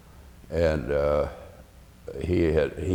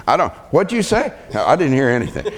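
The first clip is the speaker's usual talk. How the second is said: higher, louder feigned deafness; mock deaf coach; 8 semitones higher, 4 dB louder, faster than usual. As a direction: play dumb, cupping an ear. Coach pretending not to hear.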